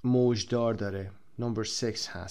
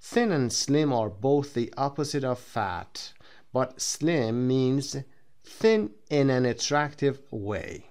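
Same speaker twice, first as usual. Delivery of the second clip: slow reading; much slower than usual. Shown as a demonstration. Teacher reads book note slowly.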